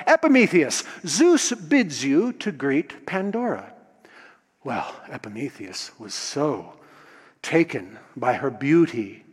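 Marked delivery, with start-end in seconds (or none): 0.1-3.7 Hermes calling out. Acted. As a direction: hail him, then announce the god's bidding. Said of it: "Hermes called out".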